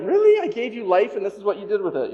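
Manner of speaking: God's voice, a high, loud "Really?" then settling; half-joking mock disbelief from heaven; incredulous God. God asks the congregation about the T-Rex death, incredulous. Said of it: "they look at you like".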